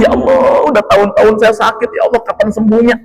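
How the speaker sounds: high, rushed imitation of a grumbling plea; mock complaining. What Ayub never said to Allah, high hurried complaint. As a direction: act out the moaning he never did. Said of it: "Dia enggak ngeluh".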